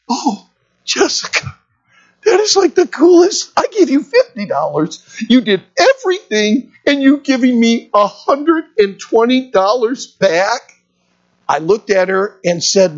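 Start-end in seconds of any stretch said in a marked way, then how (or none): 0.1-10.6 high, delighted gushing praise; excited gush. Retold or imitated. Pastor gushing thanks to Jessica, high and delighted. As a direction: pour out amazed delight at her gift.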